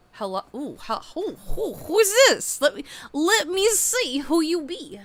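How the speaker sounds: high, loud sing-song come-on voice; flirty admirer. Retold or imitated. Admirer eyeing the viewer, flirty and high. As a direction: purr it out like a curious suitor.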